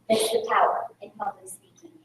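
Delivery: breathy dramatic whisper; hushed emphasis. Acted. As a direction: drop to a whisper to land the point. Dramatic point in motivational talk.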